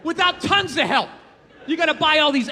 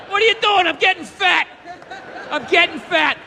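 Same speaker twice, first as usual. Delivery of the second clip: smug lazy eater; 3 semitones higher than usual. Acted. Comic acts a lazy eater.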